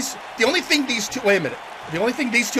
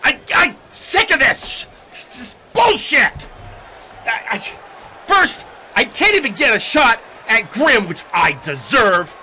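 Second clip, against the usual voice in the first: frustrated, higher-pitched rant, stumbling over words; angry wrestler; 6 semitones higher, 5 dB louder than usual. Acted. Beaten wrestler ranting that they deserve a title shot, angry and sputtering. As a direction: burst out and sputter with outrage. Kane rants after losing.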